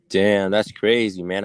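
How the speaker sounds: slow, drawn-out deadpan "damn, that's crazy"; mock deadpan. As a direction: drag it out like a tired catchphrase. Mock-repeating the stock reply.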